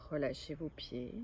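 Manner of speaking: measured yoga nidra guidance with long pauses; guided relaxation. Acted. Yoga teacher guiding listeners to lie still and let go, guided relaxation. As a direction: lead them into rest, phrase by phrase, clearly voiced.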